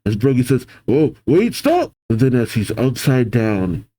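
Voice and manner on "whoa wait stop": rising, high-pitched alarm; panicked protest. Acted. Brogy being flipped over, panicked plea climbing high. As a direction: climb into a squeaky mock panic.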